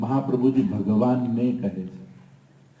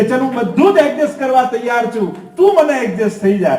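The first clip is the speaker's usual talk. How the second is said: higher, louder coaxing voice of the Lord; God gently bargaining, raised and louder; the Lord pleading; 9 semitones higher, 5 dB louder than usual. Acted. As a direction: coax the devotee as the Lord, pitched up. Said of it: "રહેવા તૈયાર થાય છે કે".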